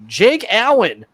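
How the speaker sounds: accidental hint of a Russian accent; the name slips into a slightly Russian accent. Real, not acted. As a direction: say it with a light Russian tinge. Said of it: "Did you hear his Russian accent".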